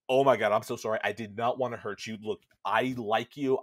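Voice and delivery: loud, pleading retold apology; urgent apology. Prince rushes to apologize to the frightened girl, urgent. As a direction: blurt out a mock-earnest sorry, pushed loud.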